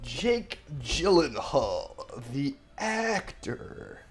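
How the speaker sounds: slow mocking.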